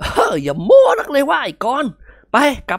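laughing off the bragging; chuckling old man. A narrator's reading. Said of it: "หัวเราะหึ่ๆ".

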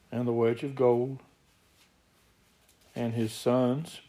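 deliberate scripture reading with long pauses; slow reading. Real, not acted. Preacher rereads verse so the church takes it in, slow reading. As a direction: read it slowly, pausing after each item. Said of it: "I'll read this slowly".

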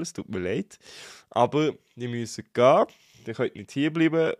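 nasal, blocked-nose voice; talking through a blocked nose; stuffy nose. Real, not acted. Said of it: "ist zu und ich rede jetzt grad wieder richtig schön nasal".

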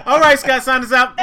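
words through loud laughter; cracking up mid-sentence; laughing. Real, not acted. Host cracking up at sign-off.

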